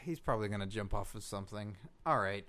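very low, quiet, deflated mumble; defeated. Acted. Host gives up on his special reporter, defeated. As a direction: say it fast and small, resigned. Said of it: "Man, you sound so defeated".

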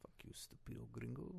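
very soft, low muttered curse; muttered insult. Acted. Masked wrestler cursing his interviewer under his breath, muttered.

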